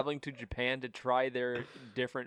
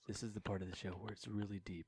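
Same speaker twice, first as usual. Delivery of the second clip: mock ASMR voice; 5 semitones lower, 12 dB quieter than usual. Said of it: "You have to talk in an A S M R voice".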